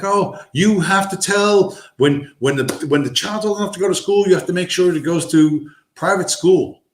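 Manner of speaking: high-pitched imitation of a gushing older woman; mimicked older woman. Older woman advising young parents on school, mimicked high voice.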